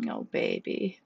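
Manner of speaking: put-on hushed, tender whisper to a child; soft. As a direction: comfort her softly. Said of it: "Faye said softly".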